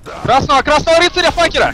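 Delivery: high excited yell; shouting. Real, not acted. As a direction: bellow the target name. Calling target in fight.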